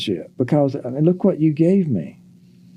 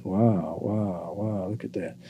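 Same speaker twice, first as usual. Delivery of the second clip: calm wow; 4 semitones lower, 10 dB quieter, slower than usual. Shown as a demonstration.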